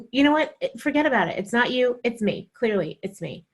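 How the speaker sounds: sarcastic. Retold or imitated. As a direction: bite back sarcastically. Acted snippy reply to husband.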